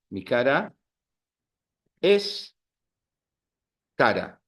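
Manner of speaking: each word set apart by long pauses; slow, word by word. Shown as a demonstration. Teacher to class, demonstrating the pun word by word with long pauses. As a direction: spell the pun out slowly, pausing between words. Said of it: "I'm playing with words".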